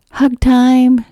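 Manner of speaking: loud, high call to the family; big high-pitched announcement; father's joyful shout. A narrator's reading. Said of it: "shouted Amelia Bedelia's father".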